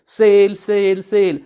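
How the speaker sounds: drawn-out, narrated street-seller call; a touch of market-vendor yelling; mild hawker's shout. A narrator's reading. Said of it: "Kanha जोरजोरात ओरडू लागतो".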